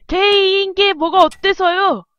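acted defiant comeback; indignant retort. Acts out the defiant son.

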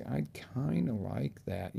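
soft, slow, noncommittal; lukewarm wish. Shown as a demonstration. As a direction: say it like you barely care. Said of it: "You can't say".

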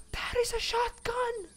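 very high, thin excited squeak; awed squeal. Real, not acted. Player spotting a shotgun, high awed squeal. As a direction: squeal in real delight.

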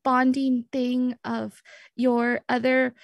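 sheepish, searching for the words; awkward excuse. Acted. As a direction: stammer your way through a tentative plea. Stammers excuse to jealous friend.

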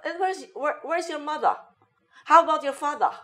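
high British accent, "mother" as "mu-thah"; British "father" said as "fah-thah", pitched high; hammed-up non-rhotic British English; British dropped R. Shown as a demonstration. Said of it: "ida-drop mo kailangan yung R".

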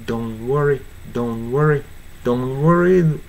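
"Don't worry" run together as "don worry"; T dropped. Shown as a demonstration. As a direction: leave out the t of "Don't" entirely. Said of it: "完全に無視してもいいかな".

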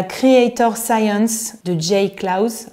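slow, hammed-up American accent on the English title; a playful American accent on the show name; self-mocking American accent. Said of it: "mon magnifique accent américain".

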